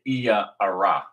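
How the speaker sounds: "Iyah Ara" said as ee-YAH ah-RAH; original pronunciation. Shown as a demonstration. Teacher corrects today's form, "Iyah Ara" as ee-YAH ah-RAH. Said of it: "but it's really".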